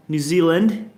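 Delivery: corrected attempt at a New Zealand accent. Shown as a demonstration. Streamer retrying the country's name in a New Zealand accent. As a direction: try it like a New Zealander, rising at the end. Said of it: "That's a bit more New Zealand there".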